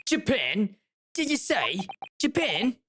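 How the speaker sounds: put-on Cockney accent. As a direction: question it in disbelief, Cockney style. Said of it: "gonna give him a Cockney accent".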